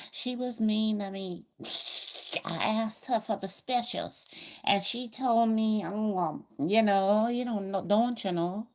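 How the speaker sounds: a customer complaining to the manager, high and loud; whiny customer complaint. Retold or imitated. Customer complaining about service.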